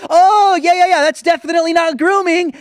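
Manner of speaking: loud, sneering mock of the offer; sarcastic mockery. Host loudly mocking the drag queen's offer to the child.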